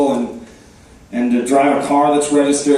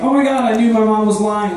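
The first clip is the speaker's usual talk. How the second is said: mock excitement; 5 semitones higher than usual. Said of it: "she was like".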